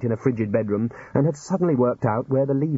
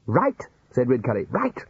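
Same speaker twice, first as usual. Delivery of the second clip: sudden interest. Acted. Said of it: "small but significant change in his tone".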